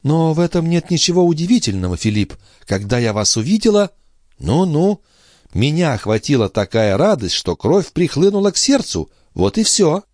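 put-on young sister making light of her illness; sister's voice. A narrator's reading.

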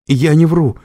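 forced out through coughs; coughing. A narrator's reading. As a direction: choke the words out coughing. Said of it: "кашляя выдавила она". (сквозь кашель)

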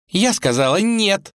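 упрямая царевна, высоким голосом; стоит на своём; упрямо. Acted. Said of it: "упорствовала его дочка". (дочка упрямо спорит с царём)

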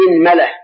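إنملة said as "inmala", i on hamza, a on mim; إنملة opening with a short i; teacher sounding out إنملة with kasra. Shown as a demonstration. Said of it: "كسر الهمزة وفتح الميم".

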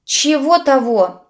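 high, loud, drawn-out query; startled joint question. A narrator's reading. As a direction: ask slowly, taken aback. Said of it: "хором спросили ведьма и Анджей". (недоумённый вопрос)

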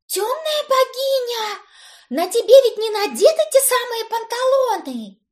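high frightened cry. A narrator's reading. Brit in the mirror, frightened, high-pitched. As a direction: gasp it out, horrified and high. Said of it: "испугалась Брит".

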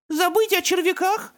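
high, slow, horrified question; horrified child. Acted. Little boy told to forget worms, horrified and high. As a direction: gasp it out like a shocked little boy. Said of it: "с ужасом переспросил Беккет".

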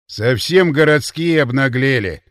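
indignant. Acted. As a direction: fume about city folk. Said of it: "возмутился Ворон".

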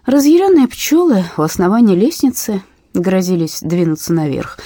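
ordinary delivery

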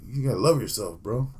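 a hint of a put-on Mexican accent in a changed voice; lightly imitated Mexican-accent advice; mock Mexican accent. Comedian tells the fan to love himself in a mock Mexican accent. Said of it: "like, Mexican type accent".

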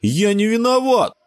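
put-on high outraged little boy; a boy shocked at the blame, high; indignant child. A narrator's reading. Sebastian protests to his friends, high indignant child voice.

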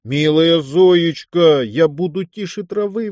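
slow, drawn-out mock pleading; half-serious plea. A narrator's reading. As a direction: beg her half in jest. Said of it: "взмолился наполовину серьёзно".

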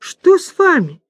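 high, loud caring question; participating concern. A narrator's reading. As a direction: ask with eager sympathy. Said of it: "участливо вопрошает". (участливо, высоко и громко)

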